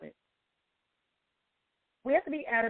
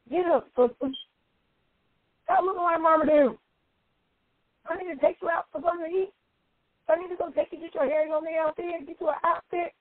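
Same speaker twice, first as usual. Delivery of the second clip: pep-talking a friend; 9 semitones higher than usual. Retold or imitated. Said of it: "I said".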